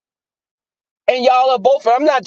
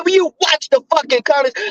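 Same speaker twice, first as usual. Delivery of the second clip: retold high-pitched scolding; going off on him; 7 semitones higher than usual. Warning an ex about his words, high and indignant. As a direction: re-enact telling him off, voice raised in pitch. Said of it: "I went off on him".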